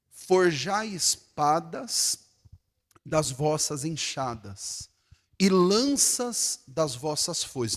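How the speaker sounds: slow scripture reading. Acted. Reads scripture slowly.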